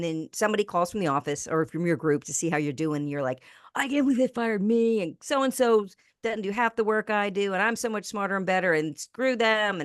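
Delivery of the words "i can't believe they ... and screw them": indignant mock rant, pitched up a bit; hammed-up griping about an old boss; pissed-off ranting. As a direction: act out a bitter fired employee. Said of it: "pissed off and talking crap".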